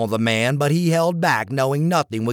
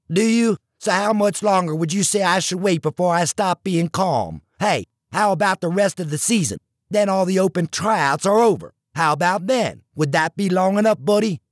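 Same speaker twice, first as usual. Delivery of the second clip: higher, pressing, indignant voice; frustrated rant; 4 semitones higher than usual. Acted. Gill venting to Tucker about the coach, higher and indignant. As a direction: vent every grievance up high.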